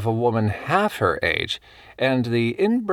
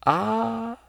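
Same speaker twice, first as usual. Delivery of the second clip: sympathetic; 13 semitones higher, 3 dB quieter than usual. A narrator's reading. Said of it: "Missus Clarence looked sympathetic".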